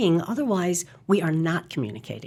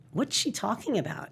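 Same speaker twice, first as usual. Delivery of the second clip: muttered aside; 2 semitones higher, 7 dB quieter than usual. Acted. Imagined colleagues muttering at a meeting.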